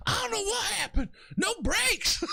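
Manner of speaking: very high, bewildered Louisiana impression; Corn Cob. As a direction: squeal it like a stunned Louisiana driver. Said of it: "had the highest pitched voice in that Louisiana accent".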